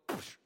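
short spat-out little dog sound; little dog noise. Retold or imitated. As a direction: imitate a little white dog. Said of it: "the little white dog".

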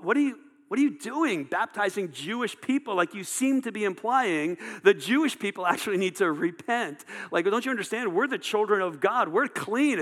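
mock-indignant pleading to be understood; indignant protest. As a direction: protest as if insulted. Acting out the delegation's indignant protest.

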